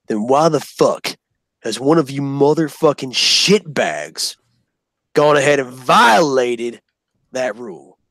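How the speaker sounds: slow and seething; slow seething drill sergeant. Retold or imitated. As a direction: growl each word slowly with contempt. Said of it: "southern accent dripping with hatred".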